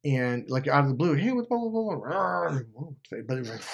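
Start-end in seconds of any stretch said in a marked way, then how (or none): 1.1-2.9 high-pitched nonsense rant, imitating a rager; sudden mock blow-up of blah-blahs; mock raging. Narcissist ex blowing up out of the blue, mock rage. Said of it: "like, rage".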